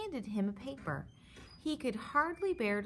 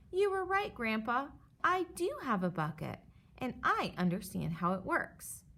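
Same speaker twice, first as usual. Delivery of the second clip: shouting happily; 3 semitones higher than usual. Acted. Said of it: "he shouted".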